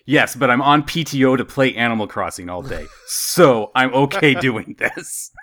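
amused she is on leave; laughing coworker. Retold or imitated. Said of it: "she chimed in like".

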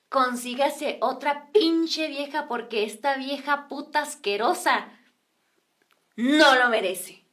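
slow, emphatic pronouncement; deliberate parting verdict. Retold or imitated. Girl advising the man before leaving, slow scornful verdict.

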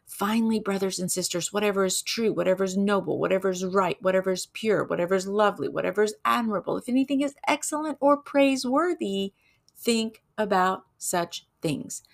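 measured, emphatic Bible recitation; scripture reading. Acted. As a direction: read it like a preacher from the pulpit.

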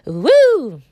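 high laugh into a loud woo; laughing whoop. Real, not acted. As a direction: cackle then shout woo. Celebrating herself.

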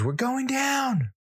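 high, drawn-out shriek of alarm; imitated child scream. Imitating his daughter on the plane, high shriek. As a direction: screech it like a panicking kid. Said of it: "she screams".

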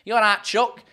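attempted Yorkshire greeting; amateur Yorkshire lilt; Yorkshire accent. Shown as a demonstration. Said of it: "try to do a Yorkshire accent".

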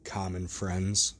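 slow, a touch hoarse echoing question. Acted. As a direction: echo it back slowly, rasping a little. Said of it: "echoed Mister Hyde a little hoarsely".

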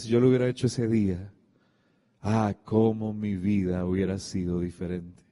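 low, softened, wistful retold regret; lamenting. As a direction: quote a father's lament, sinking in pitch. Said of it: "él siempre lamentó eso en su vida".

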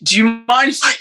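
halting, tentative plea with restarts; falter, break off and try the words over; imitated stuttering. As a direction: stumble nervously into a polite request. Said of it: "I was, like, stuttering".

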